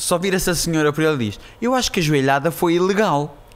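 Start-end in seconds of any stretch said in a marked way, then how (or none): 1.6-3.3 put-on cute, sweet, higher little-old-lady voice. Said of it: "com uma voz fofinha".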